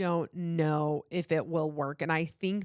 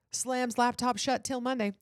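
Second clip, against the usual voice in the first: dramatic meme delivery, higher; clean retake; 6 semitones higher than usual. Shown as a demonstration. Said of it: "take two".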